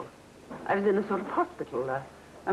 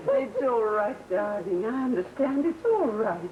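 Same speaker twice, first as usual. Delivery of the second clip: tender comfort; 4 semitones higher, slower than usual. Acted. Mother comforts crying daughter.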